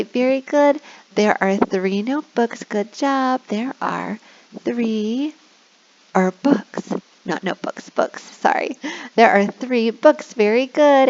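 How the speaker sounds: put-on reward a child cheerfully; kindergarten teacher voice. Shown as a demonstration. Praising child.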